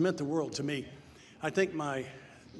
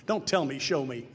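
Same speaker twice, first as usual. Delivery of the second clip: emphatic declaration; 5 dB louder than usual. Real, not acted. Emphatic slogan to audience.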